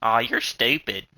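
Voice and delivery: loud, drawn-out mock put-down; slow imitation of a rude girl; mocking imitated insult. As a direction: imitate her insult, slowly and loudly. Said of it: "she'll be like".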